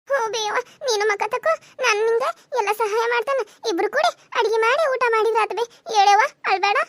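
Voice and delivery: put-on high, coaxing child's voice; pleading high-pitched comfort; consoling. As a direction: gently urge mother to stop crying. Child consoles crying mother.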